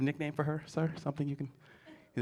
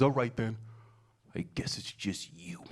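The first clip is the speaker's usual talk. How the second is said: dropping low and soft, slow; resigned kid; 7 semitones lower, 5 dB quieter than usual. Retold or imitated. Son settling for dad, soft and resigned. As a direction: give in with a sigh. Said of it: "he says".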